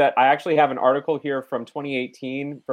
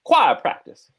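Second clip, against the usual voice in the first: choir practice in a high, drawn Southern belle lilt; mock Southern belle saying choir practice with a lifted pitch; hammed-up Blanche Dubois delivering choir practice; 8 semitones higher, slower than usual. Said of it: "Blanche Dubois".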